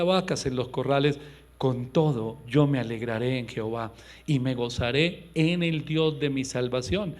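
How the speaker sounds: loud, solemn Bible reading; solemn preacher reading Habakkuk aloud; scripture reading. Acted. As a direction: proclaim the verses to the congregation.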